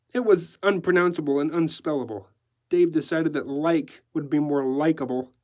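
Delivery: lively decorator with French flourishes; breezy decorator. Acted. Decorator offering newsman his mad tale, breezy. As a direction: offer the tale with showy zest. Decorator's lines in narrated story.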